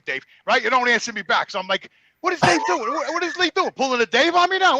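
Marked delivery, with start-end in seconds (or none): 2.2-4.8 higher-pitched, exasperated self-quote; retold upset. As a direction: replay being worked up, voice pitched up. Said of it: "I'm getting all mad and upset".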